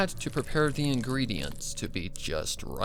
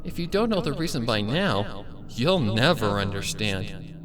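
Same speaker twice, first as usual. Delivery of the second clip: gloating villain pony; 5 semitones higher than usual. Acted. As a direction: croon it like a loving threat. Villain answers her prisoner.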